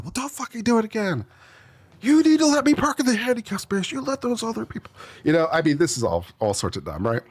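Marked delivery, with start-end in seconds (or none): 0.0-4.9 high, squeaky mock demand; whiny entitled driver. Driver demanding the handicap space from the attendant, high whine.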